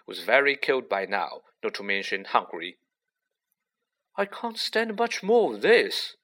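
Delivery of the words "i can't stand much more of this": muttered. A narrator's reading. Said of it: "Ron muttered".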